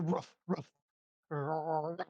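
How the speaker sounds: small imitated woofs; faint dog barks. Shown as a demonstration. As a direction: softly mimic a distant dog barking. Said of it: "like, faint dog barks".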